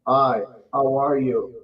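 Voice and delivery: slow, mechanical robot voice. Retold or imitated. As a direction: read it like a robot. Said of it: "unless you sound like a robot".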